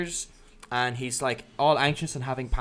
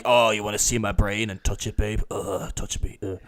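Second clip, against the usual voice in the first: mock seductive Killian; 5 semitones lower than usual. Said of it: "he's like".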